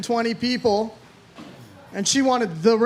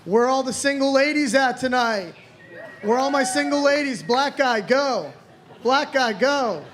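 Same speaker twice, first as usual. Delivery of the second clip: put-on old club opener; 3 semitones higher than usual. Shown as a demonstration. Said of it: "my joke I always used to do".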